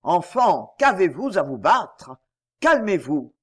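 grondement sourd et roulant d'éléphant; voix gargouillante. Acted. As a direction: gronder doucement pour calmer les enfants. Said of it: "une voix gargouillante qui roulait sourdement". (éléphant à la voix gargouillante)

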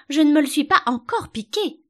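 high, loud protesting wail; distressed queen. A narrator's reading. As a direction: cry it out in anticipation of pain. Queen wailing before she is hurt.

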